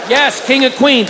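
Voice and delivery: comic giving in and shouting the title back at the crowd; shouted agreement. Retold or imitated. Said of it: "So then I go".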